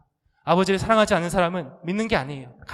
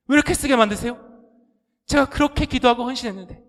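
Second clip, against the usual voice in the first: builds from plea to a loud, higher, anguished outcry; bitter complaint to God; 5 semitones higher, 6 dB louder than usual. Acted. Believer crying out against God in grief, rising to a loud wail. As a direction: rail at God, voice cracking upward as it climbs.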